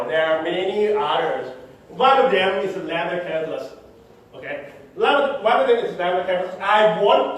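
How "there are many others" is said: "others" with the final S clearly marked; deliberate repeat, sounding out the S in "others"; stress on final S. Shown as a demonstration. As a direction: stress the plural S at the end of "others". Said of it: "emphasizing the S right now".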